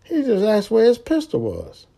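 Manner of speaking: high, alarmed voice of the other driver; the other driver, spooked, refusing; imagined other driver. Retold or imitated. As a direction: play the scared driver backing out. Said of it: "that motherfucker probably thinking like".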